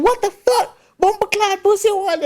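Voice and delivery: high-pitched mock Jamaican outrage; Jamaican accent. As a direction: imitate an angry Jamaican woman, pitch way up. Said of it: "She Jamaican".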